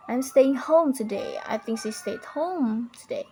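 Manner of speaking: HOME drawn out for emphasis; stressed important words. Shown as a demonstration. Teacher demonstrates American emphasis, long stressed HOME. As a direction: stretch the word HOME. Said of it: "also emphasizes important words".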